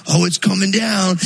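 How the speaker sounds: put-on boys yelling again, thrilled, as it falls; excited kids. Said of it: "and they're like".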